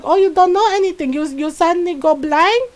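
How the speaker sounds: high, loud mock tirade; sarcastic mom scolding her sons; mom going off. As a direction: mom ranting about the couch. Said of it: "It's like".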